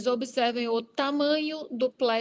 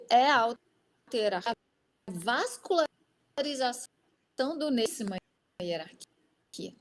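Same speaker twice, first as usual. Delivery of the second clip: choppy, cutting-out connection; breaking up over a bad line; glitching audio. Real, not acted. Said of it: "Ele tá picotando".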